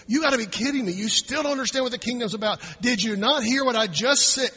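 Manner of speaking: mock disbelief climbing at the end; can't-believe-it exasperation; incredulous. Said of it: "Jesus must have been incredulous".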